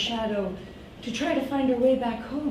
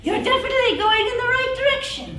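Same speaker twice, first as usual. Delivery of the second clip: creepy creature voice; 11 semitones higher than usual. Acted. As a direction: insist brightly, slightly offended.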